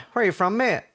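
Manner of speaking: imitated nosy cabbie; retold taxi driver. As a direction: play the taxi driver grilling a passenger. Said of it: "So he's like".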